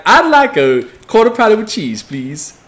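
squeaky customer startled by the cashier; timid customer. Pretend. Customer ordering from the merchant.

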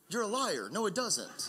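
laughing through a pretend scolding; laughing mock scold. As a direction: tease her with a laugh. Mock scolding his toddler.

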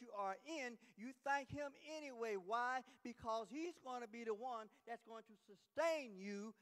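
emphatic preaching. Real, not acted. Preacher urging the church to thank God, emphatic preaching. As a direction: press the point home to the congregation.

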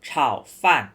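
เฉาฟั่น with the tongue curled back on the first sound. Shown as a demonstration. Teacher showing the retroflex sound in เฉาฟั่น with a curled tongue. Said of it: "เป็นเสียงม้วนลิ้นหน่อยนะ งอลิ้น".

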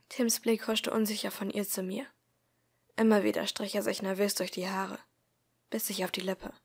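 measured first-person audiobook narration; story narration. A narrator's reading. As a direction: read the story aloud, calmly paced. Reads story aloud.

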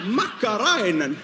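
incredulous. Real, not acted. Incredulous repeat of word.

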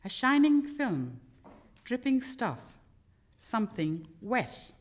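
poem reading. Acted. Reads poem translation aloud.

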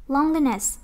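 "Loneliness" with the weight on LONE; stress on first syllable. Shown as a demonstration. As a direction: lead firmly with LONE in "Loneliness". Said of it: "nhấn âm một".

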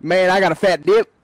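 fast, lightly put-on Alabama twang; mock Alabama country voice; Alabama accent. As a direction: brag like an Alabama dipper. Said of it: "you're from Alabama too?".

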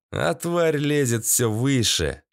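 ordinary delivery, nothing marked

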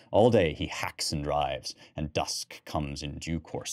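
put-on measured storytelling read of old verse; story narration. A narrator's reading. Lecturer reads the poem aloud to his class, storytelling voice. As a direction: read the hunt aloud like a tale. Reads the poem's hunting scene.

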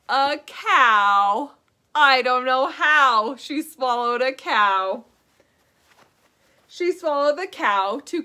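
put-on rhythmic sing-song reading for small children; children's rhyme voice; nursery rhyme reading. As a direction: lilt the rhyme like a story time teacher. Sings nursery rhyme to kids.

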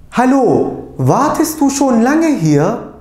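slow, loud and clear German for learners; careful German pronunciation. Shown as a demonstration. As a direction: say each German word cleanly, like a teacher modelling it. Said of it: "doğru telaffuza bir dikkat edelim".

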